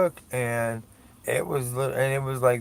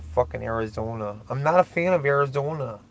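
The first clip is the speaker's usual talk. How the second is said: Minnesota accent. Real, not acted. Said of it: "a Minnesota, North Dakota type accent".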